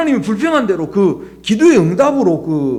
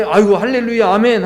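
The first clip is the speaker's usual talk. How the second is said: grateful rejoicing; 3 semitones higher, 4 dB louder than usual. Pretend. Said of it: "하고 이렇게 해야 맞지 않습니까".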